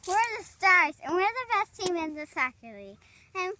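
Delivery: very loud, proud boast to camera; loud team introduction. Real, not acted. Player presents the Stars to viewers, loud boasting. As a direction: belt out the team pitch.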